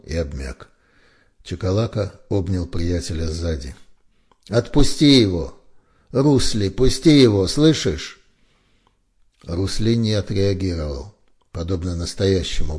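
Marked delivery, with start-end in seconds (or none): 4.5-8.2 pleading shout. A narrator's reading. Чакалака pleads for his friend.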